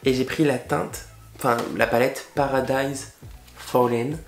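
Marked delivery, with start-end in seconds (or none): 2.4-4.2 English name in a French accent; clumsy French-accented English; bad English accent. Real, not acted. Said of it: "mon accent anglais, c'est une catastrophe".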